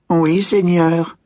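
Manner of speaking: lent, haut, lointain; répondre en serviteur mystérieux; voix invisible. A narrator's reading. (le serviteur invisible répond, lent et lointain)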